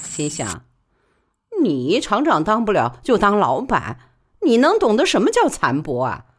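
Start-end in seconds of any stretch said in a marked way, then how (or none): 1.6-6.2 higher, louder bitter musing; lightly voiced bitter inner thought; Li Baoli's thoughts. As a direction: scoff inwardly at the boss.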